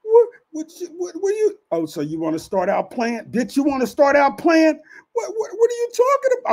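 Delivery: mock innocent woman. Pimp mimics his worker pretending she knows nothing. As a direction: play dumb in a high put-on voice. Mimicking her playing dumb.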